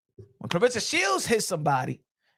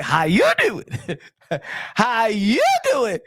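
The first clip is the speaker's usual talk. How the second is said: imitating; slower than usual. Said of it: "I was like".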